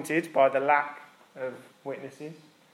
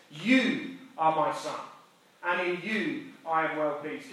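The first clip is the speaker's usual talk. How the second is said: slow tender blessing; slower than usual. Acted. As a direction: let each word land like a blessing. God speaks over Jesus.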